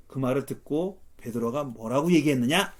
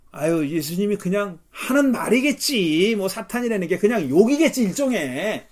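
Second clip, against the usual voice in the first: mock-casual shrug of a voice; acted dismissiveness; 4 semitones higher, 5 dB louder than usual. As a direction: wave it away as no big deal. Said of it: "생각하는 거예요".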